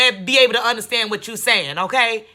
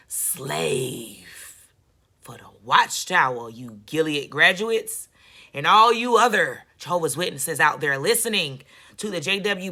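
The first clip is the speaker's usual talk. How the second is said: mock preacher voice; 3 semitones lower, 3 dB louder than usual. Parodying Watchtower preacher.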